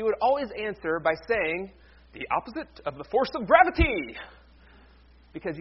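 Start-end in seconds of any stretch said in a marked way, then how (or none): 2.1-4.2 physics teacher. Retold or imitated. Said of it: "My high school physics teacher".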